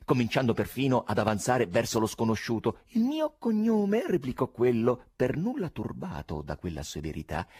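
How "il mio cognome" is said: high, loud, oily cordial stranger voice with laughs; cordial exclamation. Acted. Korofiev fobs off the chairman, high cordial voice with chuckles. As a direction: gush over him like a slippery charmer.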